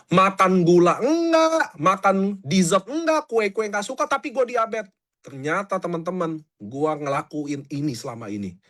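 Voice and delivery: hook the viewer with a personal twist; lightly performed clickbait hook; content hook demo. Shown as a demonstration. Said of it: "Nah, itu hook".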